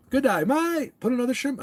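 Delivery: hammed-up Aussie shrimp line; mock Australian accent. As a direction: ham up the Aussie stereotype. Mocking Australian stereotype.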